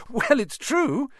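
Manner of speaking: high, slow gleeful chuckle; chortling. Acted. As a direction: chuckle through the words. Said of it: "Harry chortled".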